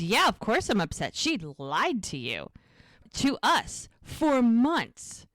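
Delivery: indignant retold outburst; pissed off. Podcaster voices woman upset at being lied to, indignant. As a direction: build the grievance, punching the last phrases. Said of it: "she's so pissed 'cause it's so true".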